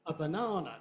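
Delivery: "a banana" with the only stress inside banana; one stress on banana. Shown as a demonstration. Teacher showing function words go unstressed, one stress. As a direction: lean on "banana", keep "a" weak. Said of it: "There's only one stress there".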